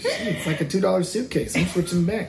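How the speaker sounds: real giggling correction; laughing. Real, not acted. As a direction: laugh your way through the line.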